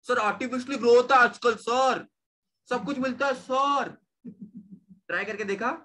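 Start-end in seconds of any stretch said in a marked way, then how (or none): 0.1-3.9 higher-pitched protesting pupil; lightly voiced student. Teacher acting a student who argues with sir, lightly mimicked objection.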